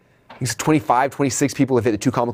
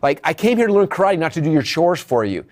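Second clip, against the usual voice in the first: higher, exasperated complaint as the student; mock frustration; 6 semitones higher than usual. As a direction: imitate a fed-up kid whining at his teacher. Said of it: "finally he gets so frustrated".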